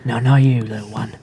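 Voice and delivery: whispered aside; hushed, to the little one. Acted. Whispered aside to a small creature.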